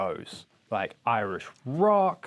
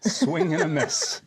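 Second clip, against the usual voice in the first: slow, higher, amused emphasis; laughing repeat; 4 semitones higher, slower than usual. Real, not acted. Host repeating the verdict on a failed Irish claim, laughing. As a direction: draw it out slowly through laughter.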